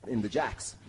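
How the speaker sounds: normal talking voice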